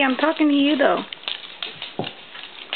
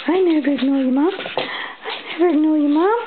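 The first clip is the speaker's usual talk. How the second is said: higher pretend doggy voice; dog's reply, pitched up and slowing; voicing the dog; 4 semitones higher than usual. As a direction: lightly play the dog answering, stretching it out. Speaks as dog answering its owner.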